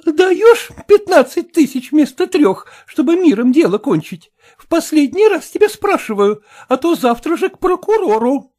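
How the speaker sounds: high, loud, pushy woman's voice; demanding sister. Acted. Dead man's sister threatens the heir, high and pushy. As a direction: press him hard, threatening.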